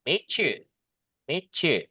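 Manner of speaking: 'Meet you' said as 'meechu', t and y merged; assimilated ch. Shown as a demonstration. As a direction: run 'Meet you' together as meechu. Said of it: "dirubah suara kayak C". ('Meet you' dilebur jadi 'mitchu')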